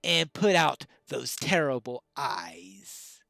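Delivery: lightly voiced haunted widow, swinging from hushed to forceful; dramatic widow's plea. Widow begs Pineleaf to slay the beast, lightly acted dramatic plea. Reads widow's tale in character.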